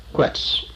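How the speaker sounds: Quetz repeated alone as KWETS; pronunciation demo. Shown as a demonstration. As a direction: say Quetz as one short syllable, kwets. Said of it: "just say Quetz".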